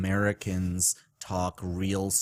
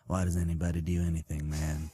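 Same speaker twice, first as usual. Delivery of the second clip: Matthew McConaughey; 6 semitones lower, 7 dB quieter than usual. Pretend. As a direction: drag it out lazily like a stoned Texan. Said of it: "Can you do an impression of Matthew McConaughey".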